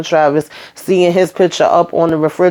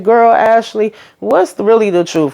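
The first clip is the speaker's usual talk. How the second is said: put-on higher, pointed girl talk; incredulous sass; 5 semitones higher than usual. Host to Ashley, higher incredulous sass. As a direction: call Ashley out, eyebrows raised. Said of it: "So I'm like".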